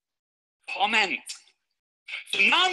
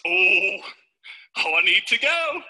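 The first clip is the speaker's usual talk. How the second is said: mock urgency; 3 dB louder, slower than usual. Acts two ways of needing toilet.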